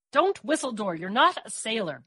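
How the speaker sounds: scolding, a touch stern; admonishing. Acted. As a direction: scold her gently. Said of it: "Mary admonished".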